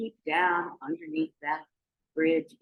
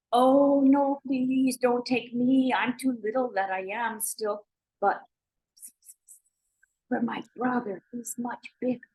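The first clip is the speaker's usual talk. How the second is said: pleading goat; 6 semitones higher than usual. Acted. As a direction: beg the troll in a high voice. Medium goat pleads with troll.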